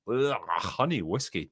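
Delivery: slow, grossed-out groan; disgusted. Real, not acted. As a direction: say it like it tastes awful. Groans at the drink suggestion.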